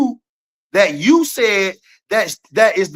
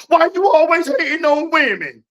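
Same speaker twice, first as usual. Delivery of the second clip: higher mocking quote of Mo; mocking his co-host; 7 semitones higher than usual. Mimicking co-host's accusation back at him, higher mocking voice. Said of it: "When you talking about".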